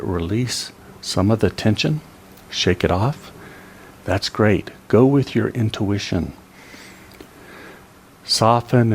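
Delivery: calm body-scan voice with long pauses; guided relaxation. Real, not acted. Teacher leads seniors through releasing neck and back, guided relaxation. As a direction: guide them gently through releasing each muscle.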